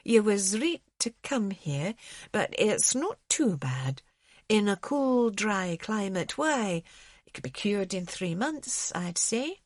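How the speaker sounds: lightly voiced Scots accent, gentle and reassuring; a hint of a Scots orderly soothing a sick man; soft Scots orderly. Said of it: "The soft Scots accent".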